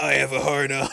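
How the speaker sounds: bizarre, very strange, oddly put-on character voice. Retelling what a character says while taking off his towel: imitating a weird voice. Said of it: "he just says in the weirdest voice".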